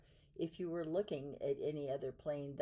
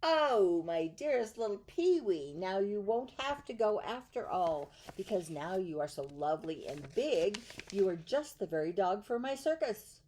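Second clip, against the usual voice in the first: delighted circus man; 4 dB louder than usual. Acted. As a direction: burst out with happy relief. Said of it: "the circus man said".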